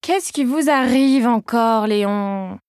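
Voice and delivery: weary, drawn-out sigh of a question; rolling her eyes at the same old fuss; exasperated. Acted. Aide-soignante fed up with Léon's complaint, slow exasperated tone. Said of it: "en levant les yeux au ciel".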